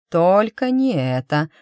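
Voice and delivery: silent plea. Acted. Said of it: "взмолилась про себя Эмма".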